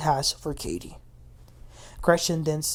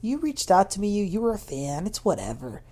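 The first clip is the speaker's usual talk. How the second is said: high, breezy mock dismissal; downplaying; 4 semitones higher than usual. Imitating a castmate who downplays her own retaliation, dismissive. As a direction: exaggerate brushing it off as nothing. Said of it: "Tamra then downplays this".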